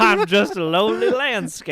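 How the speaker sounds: hammed-up Southern accent. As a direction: play a sorry Southern landscaper. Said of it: "Real Rejects Southern Gothic".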